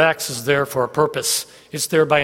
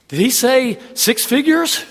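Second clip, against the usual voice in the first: mock amazement; 7 semitones higher, 3 dB louder, slower than usual. Imitating amazed Roadshow guest.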